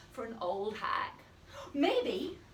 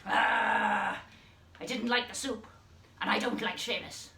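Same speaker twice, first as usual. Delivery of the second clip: a touch of a sour hag voice; grumpy old hag; 2 semitones lower than usual. Shown as a demonstration. Teacher voicing the hag who dislikes Seamus, grumpy. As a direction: grumble it like a crotchety old hag. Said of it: "And maybe your voice goes with it".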